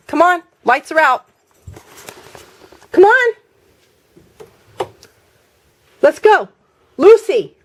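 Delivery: high coaxing call to the cat; calling pets. Real, not acted.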